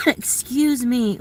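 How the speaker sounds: hoarse, slow after coughing; croaky from a cold. Real, not acted. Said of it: "I sound like I've got a cold".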